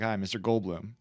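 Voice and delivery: lightly voiced deferential director; director approaching a star. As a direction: play a director quietly making a polite request. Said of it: "the director went to Jeff Goldblum and was like".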